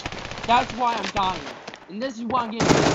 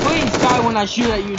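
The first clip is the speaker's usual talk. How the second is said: exasperated shout; 3 semitones higher, 5 dB louder than usual. Real, not acted. Pleading rage at enemy.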